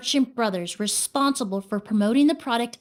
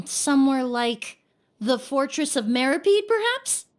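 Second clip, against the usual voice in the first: teasing; 2 semitones higher than usual. Acted. Detective's teasing accusation.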